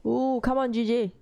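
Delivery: high, eager cheer; root for the trade, voice jumping up; excited cheering. Real, not acted.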